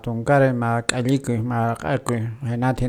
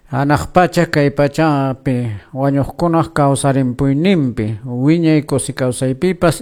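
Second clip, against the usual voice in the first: steady, slightly raised prayer recitation; recited creed. Acted. Radio host opening the programme with the Creed, recited prayer.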